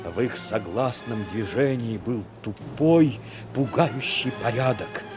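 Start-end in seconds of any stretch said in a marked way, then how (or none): none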